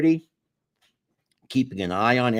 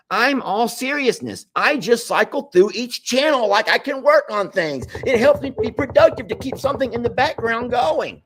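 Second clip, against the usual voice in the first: laughing read; 13 semitones higher, 4 dB louder than usual. Real, not acted. Reading comment laughing, high.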